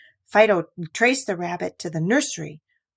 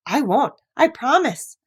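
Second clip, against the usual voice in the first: laughing promise; 6 semitones higher, 3 dB louder than usual. Acted. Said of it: "Fido laughed".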